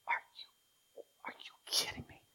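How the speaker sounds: hushed disbelieving whisper; whispered incredulity; incredulous whisper. Real, not acted. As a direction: breathe it in disbelief. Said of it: "we read this with incredulity".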